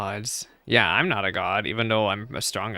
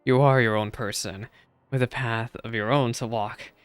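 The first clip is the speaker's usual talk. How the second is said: calm wise elder. Acted. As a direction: gently reassure the lost soul. Reading a wise priest's counsel.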